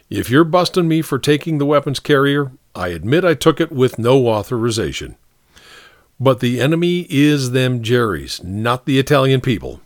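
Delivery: lightly voiced soldier owning up; concede, then argue your point; protesting soldier. Soldier arguing his case before the captain, mild protest. Story figure Gagliano pleads.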